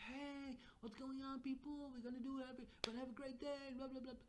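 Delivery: high-pitched hype voice; over-the-top peppy hello, trailing into blah-blah; pumped-up greeting. Acted. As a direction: pump them up with sing-out energy. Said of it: "you're getting pumped with energy".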